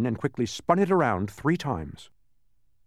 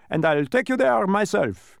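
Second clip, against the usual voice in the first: high, loud lecturing voice; animated, pleased instructor in character; emphatic dodecahedron; 8 semitones higher, 6 dB louder than usual. A narrator's reading. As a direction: drive the lesson home.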